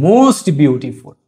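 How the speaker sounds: very slow, words drawn out for copying; slow dictation. Shown as a demonstration. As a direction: spell it out slowly like on a blackboard. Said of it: "এবং সুপারলেটিভে হবে". (ধীরে ধীরে বলা)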